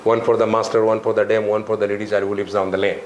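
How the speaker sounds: rote schoolroom recital on an even tune; nursery rhyme recitation. Shown as a demonstration. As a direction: recite it by heart like a schoolchild, evenly. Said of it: "हम लोग जब बचपन में पढ़ते थे तो". (बचपन की कविता, रटी हुई)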